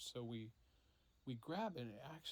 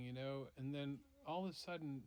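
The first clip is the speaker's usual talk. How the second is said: ordinary delivery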